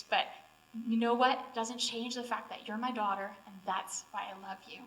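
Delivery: a father comforting his daughter, gently; tender father. Retold or imitated. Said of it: "gave me a hug and said".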